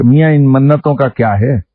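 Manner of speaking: mildly impassioned, imitating an elder holding forth; understated fervent exhortation, as retold; retold fervour. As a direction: quote him with a touch of zeal, lifting the pitch on some phrases. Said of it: "بڑے جوش میں فرمانے لگے".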